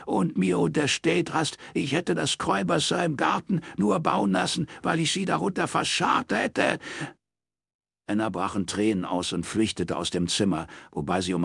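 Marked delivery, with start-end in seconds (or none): 0.1-6.8 high, mocking old man's scorn; sneering father. Father mocking his daughter, high sarcastic scorn. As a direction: scoff at Miss Know-it-all.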